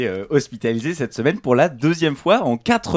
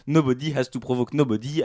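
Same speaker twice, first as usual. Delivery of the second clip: put-on English with a heavy French accent, like a schoolboy; mock a French pupil speaking English, lightly. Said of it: "avec un accent anglais, digne des meilleurs élèves de sixième français".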